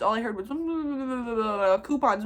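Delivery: babbled nonsense mumble around one clear word; drawn-out blubbering gibberish imitation; mock gibberish. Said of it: "all I heard was gibberish".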